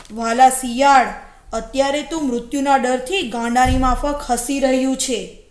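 loud, lightly voiced wolf; taunting wolf. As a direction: punch it out as a scornful predator. Wolf taunts the laughing jackal.

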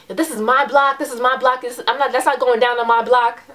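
mild, heated retort; a touch of angry defiance; retold yelling back. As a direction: imitate yelling back without full volume. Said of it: "started yelling back at him".

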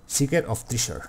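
English words read with a Spanish accent. Real, not acted. Player reads an item name, Spanish-accented English. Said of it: "es la hostia mi inglés".

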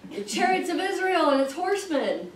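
high-pitched, incredulous echo of the quote; baffled reaction. Retold or imitated. Teacher recalls reading that second phrase, baffled. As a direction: pitch it right up, puzzled by the phrase. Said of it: "I was like".

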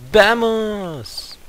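high excited cry; hyped. Real, not acted. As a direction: fire yourself up to start. Starts the battle hyped.

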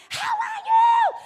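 very high, loud, slow shouted greeting; shouting over a hard-of-hearing old lady; retold shouting. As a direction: yell it across the market, stretched out. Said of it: "they started a shouting match".

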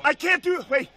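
desperate pleading. Real, not acted. Cuffed man begging, panicking.

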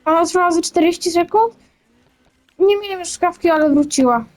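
talking through hiccups; hiccuping between words. Real, not acted. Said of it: "nadal mam czkawkę".

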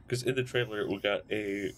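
talking through a yawn; mid-yawn words. Real, not acted. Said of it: "excuse me, I'm yawning".

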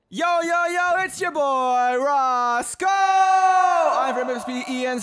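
character voice. Acted. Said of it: "character voices".

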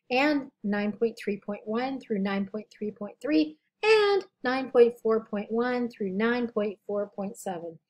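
slow, tired scratchy voice. Real, not acted. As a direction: read it with a worn, scratchy throat. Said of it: "I apologize for my scratchy voice".

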